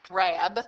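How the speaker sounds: rab said alone, stressed; isolated stressed syllable "rab". Shown as a demonstration. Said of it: "the emphasis is on the middle syllable".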